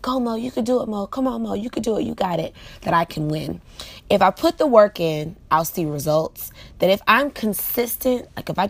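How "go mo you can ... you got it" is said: self pep talk. Retold or imitated. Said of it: "I'm always like".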